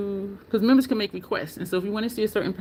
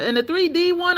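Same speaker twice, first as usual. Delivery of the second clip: ordinary delivery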